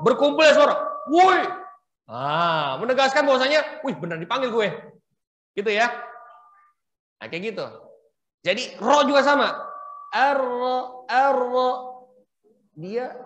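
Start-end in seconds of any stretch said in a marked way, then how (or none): 1.1-1.5 woi called higher and louder, full tafkhim; thick woi call. Shown as a demonstration. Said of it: "Tapi kalau dengan tafkhim". 10.1-11.7 arro with rolled R and gathered sound; thick arro. Shown as a demonstration. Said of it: "suaranya berkumpul di dalam".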